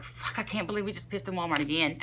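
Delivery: low, soft, stunned mutter; muttering to herself, can't believe it; quiet disbelief. Retold or imitated.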